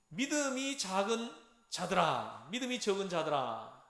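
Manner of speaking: drawn-out, somewhat forceful reproach; imitated rebuke. Teacher voicing Jesus reproving his disciples, drawn-out rebuke. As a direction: act out a slow scolding address. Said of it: "하고 책망하는".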